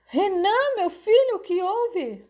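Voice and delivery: very high, anxious mother's cry; high-pitched maternal alarm; alarmed worry. A narrator's reading. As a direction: cry out in worry for your hurt son. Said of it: "preocupou-se a mãe".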